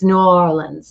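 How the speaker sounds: "New Orleans" with a long, drawn-out "Or"; drawn-out local pronunciation. Shown as a demonstration. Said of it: "they have to draw it out".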